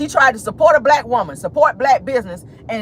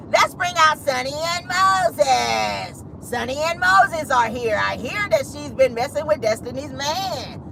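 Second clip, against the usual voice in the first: slow, drawn-out announcer-style mockery; Carlos deflecting; 4 semitones higher, 3 dB quieter, slower than usual. Host mimicking Carlos dodging a question, mocking drawn-out announcement. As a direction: stretch the names out like a big introduction. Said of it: "What did Carlos do?".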